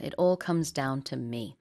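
slow model sentence. Shown as a demonstration. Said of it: "repeating the phrase".

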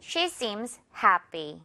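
slow model reading, happy ending in an airless py; unstressed tense p. Shown as a demonstration. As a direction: let the py of happy fall lightly. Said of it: "이런 소리가 날 수밖에 없어요".

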